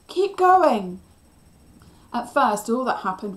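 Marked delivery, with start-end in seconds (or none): 0.1-1.0 high, loud urging shout; rousing shout that falls at the end; encouraging yell. A narrator's reading. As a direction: urge them on at full voice. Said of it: "I yelled in encouragement".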